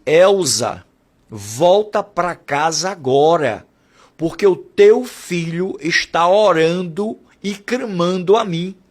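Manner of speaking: slow, solemn divine voice calling her name; voice of God. Retold or imitated. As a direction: speak slowly, like a voice from above. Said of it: "Aquela voz disse". (voz de Deus, lenta e solene)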